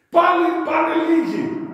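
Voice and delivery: high, loud "Πάλι πάνε λίγοι"; exclaimed. Real, not acted. Preacher telling the parable, loud and high. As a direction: ring it out in dismay.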